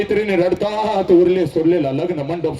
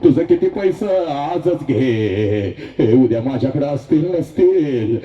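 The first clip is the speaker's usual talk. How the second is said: father paying vendors; 4 semitones lower, slower than usual. Retold or imitated. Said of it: "लग्न मंडपवाल्याला बोलवतो".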